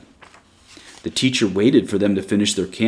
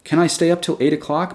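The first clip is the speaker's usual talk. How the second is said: put-on eager, raised child voice asking quickly; breathless child; 8 semitones higher than usual. A narrator's reading. Mary begs the teacher to stay up, eager and breathless. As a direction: pitch it up like a girl too excited to wait. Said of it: "Mary asked breathlessly".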